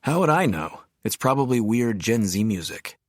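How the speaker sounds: lightly voiced friend, scoffing, pitch jumping up on the question; snorting dismissal. Best friend brushing off a question about festival music, scoffing. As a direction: toss it off with a snort, like the answer is obvious. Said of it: "Oscar had merely snorted".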